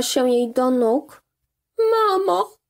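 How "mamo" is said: put-on high girl's desperate cry. A narrator's reading. Daughter throwing herself at mother's feet, crying out. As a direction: call out to her mother in despair. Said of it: "krzyknęła".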